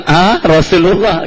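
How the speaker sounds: high-pitched mock gasp of recognition; imitating startled realization. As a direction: act suddenly startled at who it was. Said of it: "Kaget dia". (menirukan orang kaget, nada tinggi)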